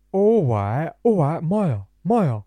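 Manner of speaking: put-on loud, high, drunk-lad voice; mocking impression of Jeevan. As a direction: ham up a drunk mate on the phone. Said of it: "That's not how I sound".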